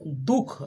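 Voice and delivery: दुख with a light h after दु; light visarga h. Shown as a demonstration. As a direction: say दुख with a faint breath of h after दु. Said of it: "हल्का सा ह".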